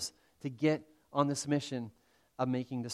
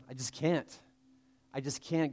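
softly voiced, mild defeat; doubting; 4 dB quieter than usual. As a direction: quietly give up, as a doubter would. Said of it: "that has this doubt".

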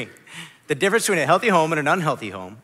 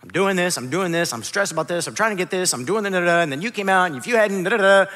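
self-justifying. Retold or imitated. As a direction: pile up excuses, trailing into da-da-da. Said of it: "I started to try to justify".

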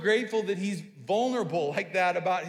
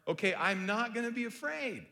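higher, hesitant, like a question; tentative self-assurance; unsure affirmation; 4 semitones higher than usual. Pretend. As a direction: say it doubting yourself. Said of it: "it's like a question mark".

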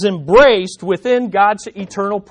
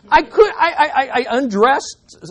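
laughing while telling; 5 semitones higher than usual. Real, not acted. Laughing at his own story.

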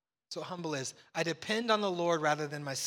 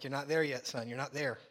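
gentle fatherly tease; 4 semitones lower, 3 dB quieter than usual. Retold or imitated. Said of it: "I'm like".

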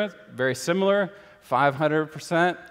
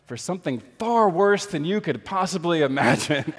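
said through a laugh, a touch higher; laughing punchline; 4 semitones higher than usual. Retold or imitated. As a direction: deliver the twist laughing. Punchline of Keller joke.

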